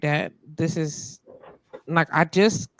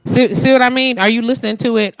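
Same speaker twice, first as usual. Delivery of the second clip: exasperated; 6 semitones higher, 9 dB louder, faster than usual. Real, not acted. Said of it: "I'm irritated".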